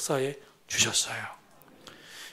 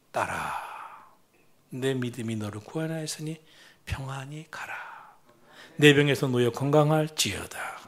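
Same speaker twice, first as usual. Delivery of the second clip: tender Jesus; 3 semitones lower than usual. Acted. Jesus gently calls the suffering woman daughter, tender. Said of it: "따뜻한 말 한마디".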